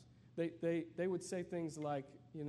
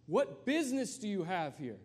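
heckler shout; 4 semitones higher, 6 dB louder than usual. Pretend. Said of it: "somebody from the back says".

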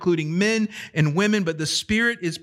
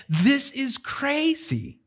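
put-on Galilean accent; 8 semitones higher, much slower than usual. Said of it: "you can hear in their accent".

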